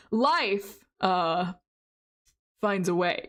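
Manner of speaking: low, halting Jeff Goldblum delivery with a pause after Life; a hint of Jeff Goldblum; Jeff Goldblum impression. Shown as a demonstration. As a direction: stretch it with a stammering uh. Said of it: "You have to be like".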